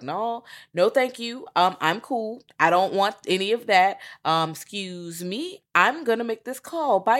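high-pitched, courteous refusal; polite brush-off. Retold or imitated. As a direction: decline nicely and edge away, voice lifted. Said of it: "he wasn't even disrespectful".

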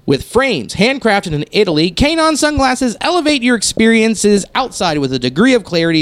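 polished radio ad read. Shown as a demonstration. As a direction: read it like a sponsor spot. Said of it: "my reading voice like that".

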